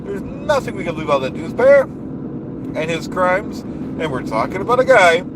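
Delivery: blustering rally-speech voice, big falling endings; pompous politician rant. Acted. Comic ranting at the audience about the dues payer, blustering politician voice. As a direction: rant like a self-important demagogue at a rally.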